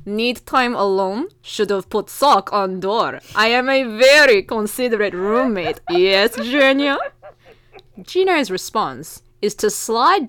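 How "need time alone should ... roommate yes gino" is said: put-on lightly Russian-accented roommate, teasing; a hint of a Russian accent, playful. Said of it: "I'll be trying to read this with the accent".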